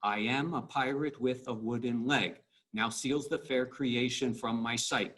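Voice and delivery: both lines in one steady weak-STRONG beat, "i AM a PIrate WITH a WOODen LEG"; iambic rhythm. Shown as a demonstration. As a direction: beat out "now SEALS the FAIR creAtion FROM my SIGHT" like a metronome. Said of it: "hear that the rhythm's the same".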